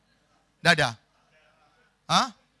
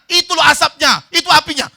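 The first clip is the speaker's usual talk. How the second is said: high, loud urgent pointing-out; urgent shouting; 11 semitones higher, 14 dB louder than usual. Acted. Friend showing sleeper smoke and flames, shouting. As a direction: yell to make him see it.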